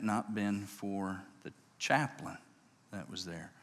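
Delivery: low, hushed retelling of a grieving man; soft and heavy, slowing toward the end; tearful, understated. Retold or imitated. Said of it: "He cried outside the window".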